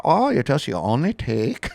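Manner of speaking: put-on a failed, laughing stab at a Swedish accent. Imitating the calm Swedish baker in a Swedish accent. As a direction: try a Swedish accent and crack up. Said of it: "I can't do a Swedish".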